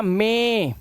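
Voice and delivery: "मे" with a held ay vowel; long ay sound. Shown as a demonstration. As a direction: stretch "मे" on one long ay. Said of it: "ए की आवाज".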